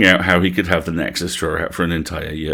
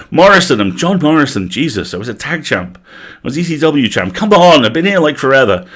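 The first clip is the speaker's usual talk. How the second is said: indignant wrestler; 5 semitones higher, 3 dB louder than usual. Acted. Ghost indignant about name.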